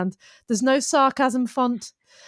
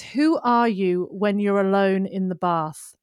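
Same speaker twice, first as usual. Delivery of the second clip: slow acted line; 2 semitones lower, slower than usual. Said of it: "she was given this line to say".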